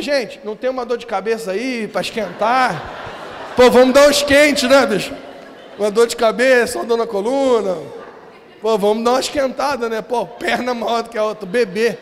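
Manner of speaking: rally the room like a revival preacher, booming; shouting to the congregation to bring the sick forward; calling out to the crowd. Retold or imitated.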